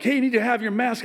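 a light impression of a clerk calling out; imitating the cashier. Retold cashier scolding at door.

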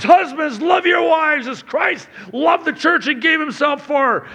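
emphatic reading. Real, not acted. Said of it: "Three times".

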